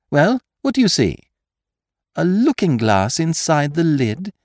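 high, urgent questioning; impatient gang boss on the telephone; Lupin pressing Marco. A narrator's reading. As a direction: push your accomplice to hurry. Lupin urges accomplice by telephone.

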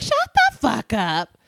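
slow, drawn-out dismissal. Retold or imitated. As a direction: say it again, harder. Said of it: "And I'd be like".

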